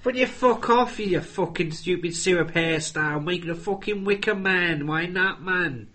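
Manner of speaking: hammed-up Mancunian rant; Christopher Eccleston. Imitating the actor's villain, aggrieved Manchester accent. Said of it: "That was Christopher Eccleston".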